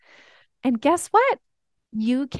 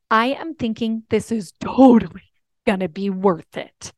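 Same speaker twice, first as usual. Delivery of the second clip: son's voice; 5 dB louder than usual. Retold or imitated. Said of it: "he turned to me and said".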